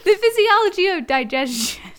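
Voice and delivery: 'physiology' said smoothly in one go, laughing; clean pronunciation. Real, not acted. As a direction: land 'physiology' cleanly first time. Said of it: "you just did it like that".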